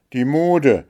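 name "die Mode" as the culprit; indignant, accusing statement of "die Mode"; angry naming. A narrator's reading. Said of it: "der Zorn rötete ihre Wangen".

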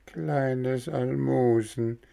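slow, high, whimpering echo of Kleines Almosen; wailing echo. Acted. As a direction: drag out Kleines Almosen slowly, like a wailing cat. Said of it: "jammerte die Katze".

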